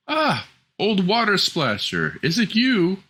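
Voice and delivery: put-on high, young princess voice; a high girlish princess. Princess voiced in fairy tale.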